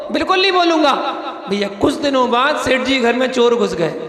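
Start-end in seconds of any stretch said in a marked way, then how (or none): 0.1-0.9 laughing. Acted. Dog vows silence, laughing.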